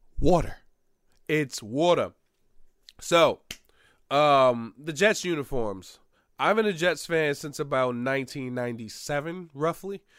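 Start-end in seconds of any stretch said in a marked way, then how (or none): 0.2-2.1 exaggerated put-on East Coast accent. Podcast host saying the sponsor's name in an exaggerated East Coast accent. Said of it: "as I put on my special voice".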